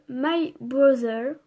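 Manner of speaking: «My Brother» prononcé avec un fort accent français, lentement; accent français sur l'anglais. Real, not acted. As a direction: dire «My Brother» à la française, sans chercher l'anglais. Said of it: "Désolée pour mon accent dégueulasse d'anglais". (titre anglais lu avec l'accent français)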